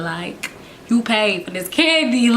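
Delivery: slow, stretched-out incredulous retort; drawn-out mock disbelief. Kid retorting to her aunt about the candy, drawn out and incredulous. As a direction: let each word hang in disbelief.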